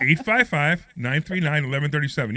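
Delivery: loud, punchy number read; punchy announcer read. Shown as a demonstration. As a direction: sell the number like an ad. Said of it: "Your turn, Deb".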